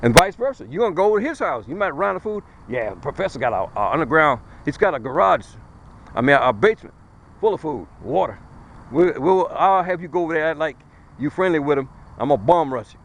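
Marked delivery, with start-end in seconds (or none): 2.7-13.0 low, conspiratorial plotting voice; lightly voiced schemer, dropping low; scheming neighbor. Neighbor plotting to raid food.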